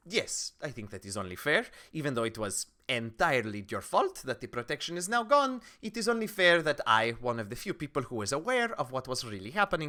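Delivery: lightly voiced, formal offer of help; measured, with emphatic swells; conceding townswoman. Townswoman agrees to supply the party, formally. Game master plays townswoman.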